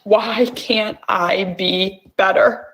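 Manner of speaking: slow, drawn-out question to herself; slow plea. Shown as a demonstration. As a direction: let each word sink in slowly. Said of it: "tapping phrase repeated".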